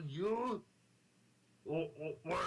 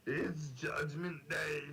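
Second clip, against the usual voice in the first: Arnold impression; slower than usual. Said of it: "my Arnold impression".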